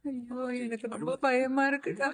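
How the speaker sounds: softly weeping, frightened for her daughter; tearful fear. Acted. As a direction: let the fear spill into tears. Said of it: "மாச்சி, அழாதீங்க".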